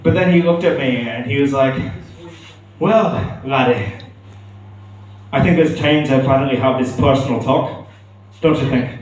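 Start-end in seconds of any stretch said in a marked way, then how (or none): 2.8-8.9 dad speaks to his son in a lightly put-on Scottish accent. Son hears his dad's light Scottish accent at a hotel bar. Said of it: "I'm not too bad at a Scottish accent".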